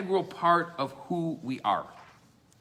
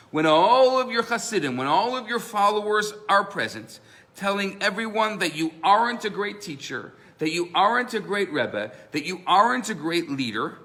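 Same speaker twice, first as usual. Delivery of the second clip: loud, higher insistent demand; 4 semitones higher, 5 dB louder than usual. Retold or imitated. Opponent loudly challenging the Rebbe to prove humility. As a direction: press the Rebbe hard, voice raised.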